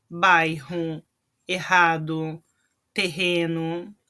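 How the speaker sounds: bairro, errado, terreno with rr as a throaty h; guttural double R. Shown as a demonstration. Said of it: "ele me dá um som do J do espanhol".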